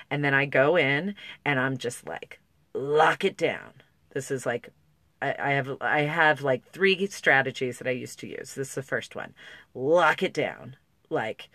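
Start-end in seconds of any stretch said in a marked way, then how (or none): 2.7-3.8 slow, drawn-out self-command; locked-down. Acted. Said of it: "flattened way of being". 9.7-10.8 slow, drawn-out self-command; locked-down. Acted. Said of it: "flattened way of being".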